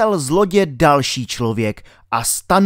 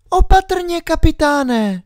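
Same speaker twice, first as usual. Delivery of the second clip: high, louder urgent cry; urgent girl Alenka; 4 dB louder than usual. A narrator's reading. Alenka insists the doctor is a pirate, high and urgent.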